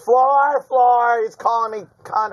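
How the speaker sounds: high, loud call for help; imitated upset dealer. Dealer summoning the floor manager, high loud imitation. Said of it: "And then she's like".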